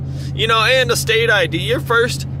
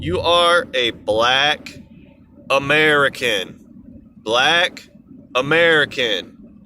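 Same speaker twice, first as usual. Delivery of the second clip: slow, deliberate "black" and "American" with a pause between; slow emphatic correction; 7 semitones lower, slower than usual. Real, not acted. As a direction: lay out "Black" then "American" like a lesson. Spelling out a correction.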